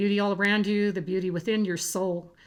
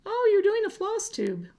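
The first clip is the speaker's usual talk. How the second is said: much higher, louder excited squeal; imitating a high-pitched voice; 14 semitones higher, 4 dB louder than usual. Youngest daughter telling everyone her mom is famous, in a high-pitched squeal. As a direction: mimic a thrilled little girl squealing. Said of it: "in that very high-pitched voice she was doing".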